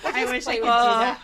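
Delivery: laughing through the words; giggling as she says it. Real, not acted.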